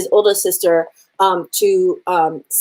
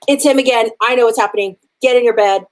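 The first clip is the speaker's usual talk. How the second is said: higher, louder mock order, half-playful; mock bossy warning; 4 semitones higher, 4 dB louder, faster than usual. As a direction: bark it out like a strict guardian sending someone to bed. Waka orders Laie Kawai.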